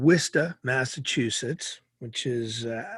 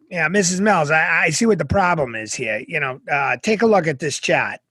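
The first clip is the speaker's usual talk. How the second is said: mock doctor lecturing the mom; 3 semitones higher, 6 dB louder than usual. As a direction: play the condescending old doctor. Retold doctor voiced in story.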